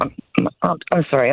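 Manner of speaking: nervous. Real, not acted. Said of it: "I'm a little nervous right now".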